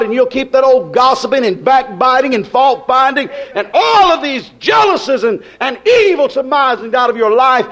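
driving, rhythmic pulpit exhortation; rolling revival sermon cadence; impassioned preaching. Acted. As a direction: hammer each point home to the congregation. Preaches at the congregation.

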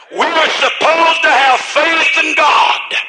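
slow, drawn-out preacher's refrain; impassioned preaching. Real, not acted. Preacher exhorts the weak and dying to have faith, impassioned refrain. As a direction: drive each refrain home with full conviction.

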